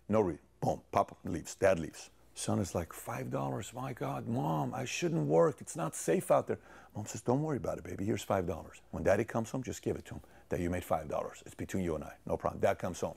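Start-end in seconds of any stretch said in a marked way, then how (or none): 2.9-6.6 complaining son. Acted. Son tells mom he shouldn't work, complaining. 7.2-12.6 softer, lower conspiratorial reassurance; reassuring mom. Acted. Mom slips son five dollars, quietly reassuring.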